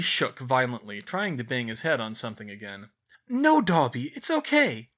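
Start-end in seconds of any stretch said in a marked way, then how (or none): 3.3-4.9 high, loud, insistent comforting; urgent reassurance. A narrator's reading. Girl to hysterical elf, urgently reassuring. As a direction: reassure firmly over his wailing.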